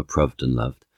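"proved and loved" both said with the short uh vowel, "pruhved" and "luhved"; both with short u rhyme. Shown as a demonstration. Linguist demonstrating the likelier original rhyme, both vowels short uh. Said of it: "the latter rather than the former".

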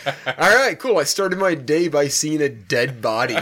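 laughing. Retold or imitated. Retold grim morning, laughing.

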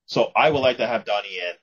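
ordinary delivery

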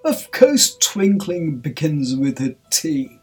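loud, slow, sharp retort; forceful, drawn-out scolding. A narrator's reading. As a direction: spell it out with royal impatience. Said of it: "the king sharply said".

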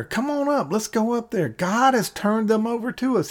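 mild imitation of a rallying call; retold shout. Jonathan urging his arm bearer upward, mild mock shout. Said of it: "Jonathan shouted to his arm bearer".

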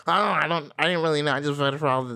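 mocking, flustered non-answer; mock clueless voter. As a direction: imitate a voter fumbling for an answer.

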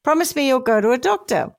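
lightly acted caring voice; caring wife. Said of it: "she said in a caring voice".

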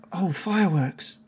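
high-pitched flustered realisation; dismayed Todd character. Acted. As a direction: catch yourself mid-gush, dismayed. Todd realises fireworks are gone.

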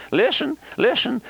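urgent high call to listen. Real, not acted. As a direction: call the congregation to attention. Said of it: "preacher calling attention".

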